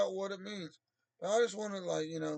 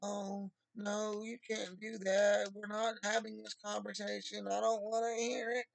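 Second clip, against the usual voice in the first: mildly whiny imitation; mock whiny Christians; 3 semitones higher than usual. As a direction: imitate prissy objectors lightly. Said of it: "these Christians down here like".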